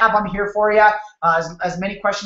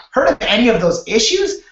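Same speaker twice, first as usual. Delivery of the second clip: puzzled homeowner echoing "Heard of any of those issues?" a bit louder, rising; 4 dB louder than usual. Retold or imitated. Homeowner repeating the salesman's question, confused. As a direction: toss the question back, baffled. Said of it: "they're like".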